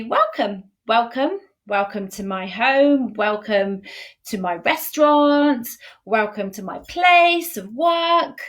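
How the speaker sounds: slow, inviting welcome; welcoming. Shown as a demonstration. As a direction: welcome them in warmly. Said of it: "So normally it would be".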